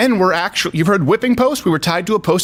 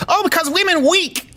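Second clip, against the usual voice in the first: high-pitched mock Chinese accent; broken English in a caricatured Chinese accent; Chinese military leader impression; 13 semitones higher than usual. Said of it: "doing an impression of a Chinese military leader".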